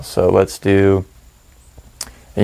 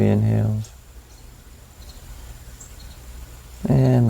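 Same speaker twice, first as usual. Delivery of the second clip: calm, measured meditation voice with long pauses; guided meditation; 8 dB quieter than usual. Acted. Meditation guide settling listeners into their breath, calm guided meditation. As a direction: ease them through each breath and let silence sit between phrases.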